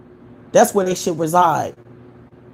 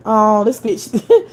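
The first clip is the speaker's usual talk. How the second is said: 1 slow laughing scorn; 4 semitones higher, 3 dB louder, much slower than usual. Real, not acted. Laughing at a troll.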